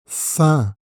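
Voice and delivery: "Fin" with a nasal vowel and no N; nasal demo. Shown as a demonstration. Teacher to learner, showing the nasal: N left silent. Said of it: "avec la nasale un".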